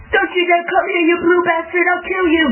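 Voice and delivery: high, heated threatening yell; angry threat. Real, not acted. Threatens enemy player.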